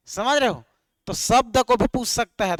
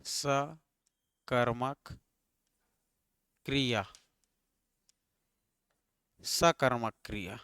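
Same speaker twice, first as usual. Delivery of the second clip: slow dictation; 9 semitones lower, 10 dB quieter, slower than usual. Shown as a demonstration. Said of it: "writing heading on board".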